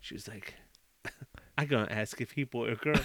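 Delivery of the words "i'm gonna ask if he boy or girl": lower, softer imitated Asian accent; mock Asian accent. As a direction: quietly mimic a plotting waitress's Asian accent. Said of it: "Was that your Asian accent?".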